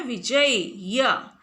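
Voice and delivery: विजय या said slowly, ending on a clear या; slow teaching word. Shown as a demonstration. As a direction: draw out विजय या for the class. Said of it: "लेकिन विजय क्या है". (विजय या धीरे-धीरे, या साफ़ बोलकर)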